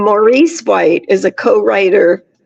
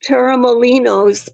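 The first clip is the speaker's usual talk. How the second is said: Torremolinos with a light Spanish accent, final s; 2 semitones higher than usual. Shown as a demonstration. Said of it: "it's gonna be pronounced in a Spanish, um, accent".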